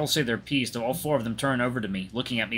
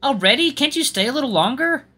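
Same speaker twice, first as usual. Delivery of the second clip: high-pitched, disappointed plea; surprised pleading; 13 semitones higher, 6 dB louder than usual. Acted. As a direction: ask them to stay, voice lifted high. Friend pleading with departing musician.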